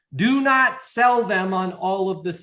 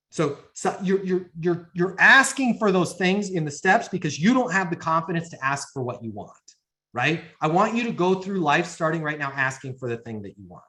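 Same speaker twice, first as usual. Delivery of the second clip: ordinary delivery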